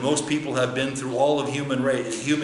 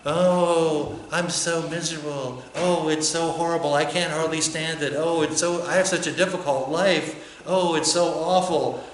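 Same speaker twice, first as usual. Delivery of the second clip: moaning oh, a hammed-up complaint; mock misery, sighing oh; mock whining; 3 semitones higher than usual. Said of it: "We complain about how miserable we are".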